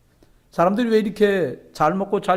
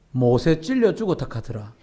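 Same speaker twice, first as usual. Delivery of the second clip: Gyeongsang grandma. Retold or imitated. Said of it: "처음에 말을 했던 할머니가 하는 말이".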